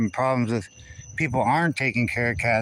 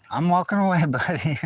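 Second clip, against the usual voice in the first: playful teasing; 6 semitones higher than usual. Real, not acted. Teasing the cat while walking.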